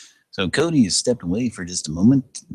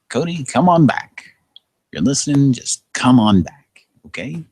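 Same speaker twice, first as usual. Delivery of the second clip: calling out; 8 semitones higher, 8 dB louder than usual. Real, not acted. Calling out to absent friend.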